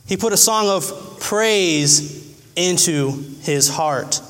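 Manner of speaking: slow, weighty preaching repeat; slow, drawn-out emphasis. Shown as a demonstration. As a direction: stretch every word out slowly. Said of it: "repeated slower".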